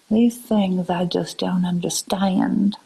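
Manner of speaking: slow Southern drawl; Southern accent. Acted. Streamer playing up bewilderment to viewers, slow Southern accent. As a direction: put on your best Southern voice, unhurried. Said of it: "in my best Southern voice".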